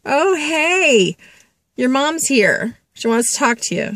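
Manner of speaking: high, sing-song medium announcing; hammed-up psychic delivering news; mock medium voice. Imagined medium telling a stranger at dinner, high and chirpy. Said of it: "go over to them and say".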